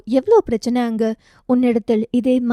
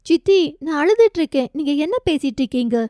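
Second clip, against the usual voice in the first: tearful protest; 4 semitones higher than usual. Acted. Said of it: "நான் சீரியஸா அழறேன்".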